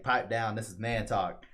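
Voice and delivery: gruff Cid. Retold or imitated. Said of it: "so Cid's all like".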